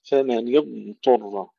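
slow فمن اضطر, ض drawn out and heavy; correct emphatic dad. Shown as a demonstration. Teacher models the right ض for students. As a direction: lean on a full, heavy ض then ط. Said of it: "تفخيم وإظهار واستطالة ثم تفخيم الطاء".

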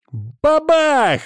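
high, loud playful shout; sudden shouted "Бабах!"; child's yell. A narrator's reading. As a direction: bang it out like a kid with a toy gun. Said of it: "заорал Димка".

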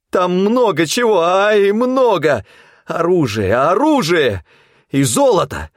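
high manic greedy babble; crazed babbling. A narrator's reading. Hunter playing a lunatic, babbling demands at the gang. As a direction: play the madman demanding a prize. Hunter feigning madness, bargaining.

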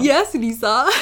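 a lightly stilted "Yes, Lisa" with a small rise on "Yes"; a light, half-hearted copy of the Tommy Wiseau line; Tommy Wiseau impression. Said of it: "the way Tommy Wiseau saying it".

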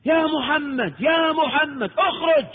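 high, drawn-out call of يا محمد; imitating a Bedouin calling; mock calling out. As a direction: call out to the house from the street, stretching each word. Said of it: "وقعد ينادي".

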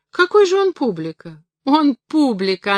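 high, loud and incredulous; amused exclamation. A narrator's reading. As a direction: exclaim as if about to burst out laughing. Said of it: "Она вдруг залилась смехом".

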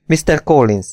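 magasabb, csengő női megszólítás; szólítsd meg csengő hangon. A narrator's reading. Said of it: "mondta a nő csengő hangon". (csengő hangon)

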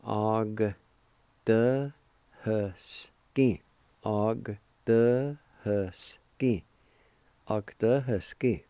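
"Og, de, husky" said as separate slow syllables; syllable by syllable: "Og", pause, "de", pause, "husky"; broken into syllables. Shown as a demonstration. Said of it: "pronounce the G sound with the first A like this".

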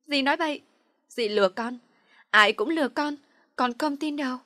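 high, loud denial; tearful angry shout. A narrator's reading. Girl refusing to believe her aunt, loud and desperate. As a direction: cry out that everyone lies.

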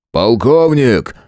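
drawn-out barking call; barked shout. Acted. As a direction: bark the rank across the yard. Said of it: "гаркнул Громов".

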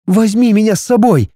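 put-on high pleading young woman. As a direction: beg him not to leave you. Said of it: "умоляла Нелли".

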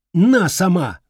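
furious shout. Acted. Boy shouting as he throws flowers at her. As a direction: hurl the words.

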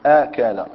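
آكل said with a long open first vowel. Shown as a demonstration. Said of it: "ونضمها في النطق". (قل آكل بمد الهمزة)

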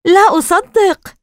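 high, slow, loud gasp of alarm; trembling disbelief. Acted. Casey staring into the cupboard of plants, trembling disbelief. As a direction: draw it out in frightened disbelief. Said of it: "كان صوته يرتعش".

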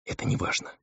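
soft breathy whisper, no voice at all. A narrator's reading. Girl dismisses his demon nature, whispered. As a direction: whisper it gently, almost unheard. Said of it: "прошептала она".

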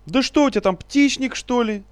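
very high, loud shrieking; piercing shriek. A narrator's reading. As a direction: scream it shrilly. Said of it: "пронзительно завопил".

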